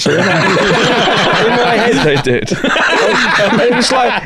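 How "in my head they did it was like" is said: high, laughing through the words; can't stop giggling at the memory. Real, not acted. Laughing at his own story.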